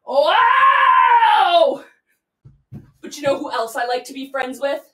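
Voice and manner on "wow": high, loud cry of delight; big excited wow. Acted. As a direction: gush with joy over babies. Delighted about babies.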